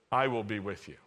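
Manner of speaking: calm, low reassurance; a light touch of tenderness; gentle God. Acted. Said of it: "But he says it gently".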